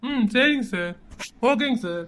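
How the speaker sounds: low, soft acknowledgement; deferential phone voice. Acted. Man on a call with his boss, quietly deferential. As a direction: keep it low and respectful.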